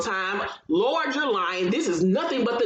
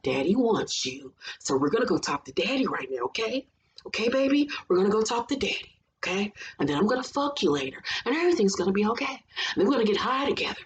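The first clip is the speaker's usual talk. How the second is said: put-on creepy soothing baby talk; faster than usual. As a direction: soothe her like a baby, menacingly calm. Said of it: "talking to her like a baby ... soothing".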